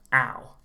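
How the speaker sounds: ow as when you get hit; OW sound. Shown as a demonstration. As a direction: open ah gliding to oo in ow. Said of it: "like you get hit".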